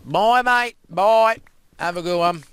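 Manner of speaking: high, loud called-out goodbye; shouted farewell. Pretend. Player sends a mate off with a goodbye, high shout. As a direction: yell it out as a cheery send-off.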